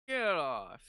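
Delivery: loud yell with falling pitch; retold mom's order. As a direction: imitate mom yelling at the kids. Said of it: "our mom comes in and she's like".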